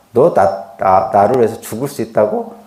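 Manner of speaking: a loving Jesus gently asking his disciple; gentle loving question. Shown as a demonstration. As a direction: ask it tenderly, as a fond teacher. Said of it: "이게 조롱하고 비난하려고 하는 말 아닙니다".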